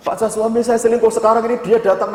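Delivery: high, urgent plea; imitated distressed wife. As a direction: mimic a worried wife reporting by phone. Retold distressed wife phoning again.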